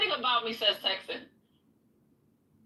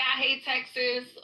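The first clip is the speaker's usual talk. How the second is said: mock hater; slower than usual. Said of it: "they be like".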